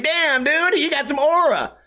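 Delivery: put-on high, impressed kid voice; mock kid awe. Kid complimenting the comedian, high impressed voice. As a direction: gush like an awed teen.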